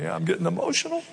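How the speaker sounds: sarcastic. Retold or imitated. Sarcastic reaction to athlete.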